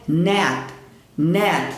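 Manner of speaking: "net" ending on a trapped, unreleased T; held T. Shown as a demonstration. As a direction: stop "net" with the tongue on the palate. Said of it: "É o T preso".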